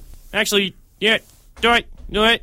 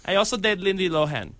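Fez. Acted. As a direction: draw it out in a put-on foreign voice. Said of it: "it's Fez here".

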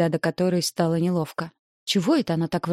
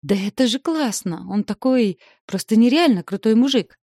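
higher, louder, gushing with joy; bubbly sorority girl; 5 semitones higher, 5 dB louder than usual. A narrator's reading. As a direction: squeal it out in delight. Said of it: "завизжала от радости".

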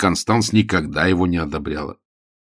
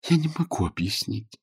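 helpless; 7 semitones higher, 6 dB quieter than usual. A narrator's reading. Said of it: "беспомощно сказала Сью".

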